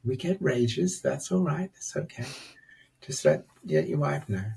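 calm inner voice soothing a man after his rage. Retold or imitated. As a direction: settle him down gently, almost breathing the words. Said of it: "It was this very calming voice".

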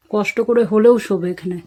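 usual speaking voice

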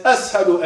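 Ashhadu with a plain S sound in place of SH; hissed S replacing the SH in Ashhadu. Retold or imitated. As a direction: say Ashhadu as "as-hadu". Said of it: "it said".

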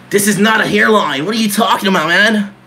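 mock tantrum. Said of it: "I have a little tantrum sometimes".

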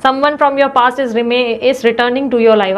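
very slow, deliberate card reading; slow oracle-style reading; reading the card aloud. Shown as a demonstration. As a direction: read each word of the card out carefully. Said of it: "देखो reconciliation".

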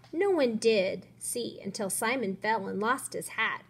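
put-on lively storybook reading for young kids; story read to children. A narrator's reading. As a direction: read it to a class with expressive lifts. Reads story aloud to children.

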